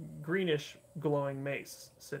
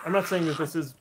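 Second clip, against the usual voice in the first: laughing; 6 dB louder than usual. Real, not acted. GM laughing at players.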